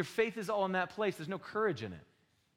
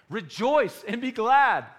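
emphatic proclamation; 7 semitones higher, 11 dB louder, much slower than usual. Acted. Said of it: "read scripture with emphasis".

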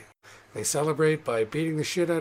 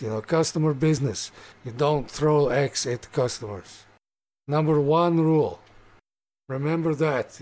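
orc barkeep. Acted. Barkeep lays down the axe range rules for the guest. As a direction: drill the house rules into the guest.

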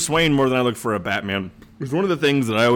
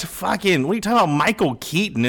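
higher-pitched, animated disbelief; mock incredulity; 5 semitones higher than usual. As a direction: replay a baffled, scandalized reaction. Acting out disbelief at past casting.

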